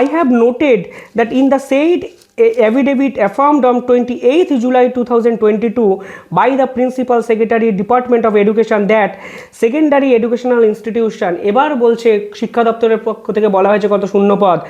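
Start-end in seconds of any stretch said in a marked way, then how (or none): 0.0-11.3 reading a court order word by word, very slow; slow, measured legal read-out; slow formal reading. Acted. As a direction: spell out each figure deliberately for the record. Reads affidavit from judgment.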